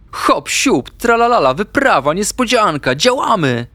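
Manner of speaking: high, sing-song burst of glee; hopping with joy, pitch leaping up; bouncy excitement. A narrator's reading. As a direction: chirp it like an overjoyed little animal. Ignaś jumps up, thrilled at surprise.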